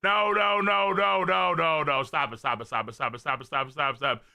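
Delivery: rapid-fire repeated protest; breathless string of pleas; frantic pleading. Acted. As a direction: beg it to stop, over and over.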